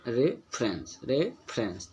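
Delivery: रेफरेंस with a drawn-out, stressed "रे"; रेफरेंस in beats, weight on रे; stressed first syllable. Shown as a demonstration. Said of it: "जोर दे के पढ़ रहे हैं".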